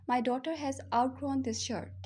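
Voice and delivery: slow, word by word model sentence; slow teaching model. Shown as a demonstration. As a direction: dictate it slowly to the class. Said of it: "इसको मैं English में कैसे बोलूँगी?". (धीमा, साफ़ उच्चारण)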